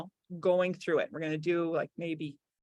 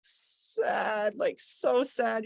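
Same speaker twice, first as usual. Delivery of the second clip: demo sad; much slower than usual. Shown as a demonstration. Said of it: "go to the opposite of sad".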